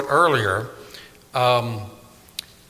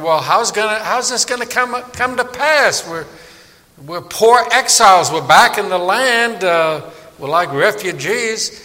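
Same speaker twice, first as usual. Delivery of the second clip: higher, anxious pleading; worried exiles; 6 semitones higher, 4 dB louder than usual. Retold or imitated. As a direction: plead like poor refugees. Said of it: "the Jews were wondering".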